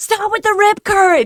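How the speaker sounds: mock bloodcurdling scream, very high, shrill, furious. Retelling yelling at a voice assistant about rip currents: imitating herself screaming. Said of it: "screaming bloody murder at her".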